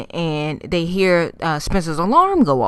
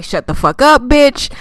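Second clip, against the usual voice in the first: louder retold telling-off, rising high on the last word; mock angry retort; 7 semitones higher, 4 dB louder than usual. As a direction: imitate an irritated friend silencing someone. Retold snap at panicking friend.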